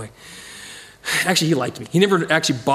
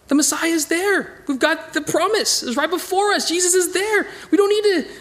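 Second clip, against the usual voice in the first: rising fervor; 12 semitones higher than usual. Real, not acted. Preacher telling the congregation the Messiah is here, exultant. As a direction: lift it up, proclaiming joyfully.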